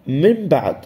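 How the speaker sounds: "من بعد" said as "mim ba'd", ن becoming m; iqlab. Shown as a demonstration. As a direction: say the ن in من as a م before بعد. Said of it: "الحكم إقلاب". (إقلاب النون ميمًا في «من بعد»)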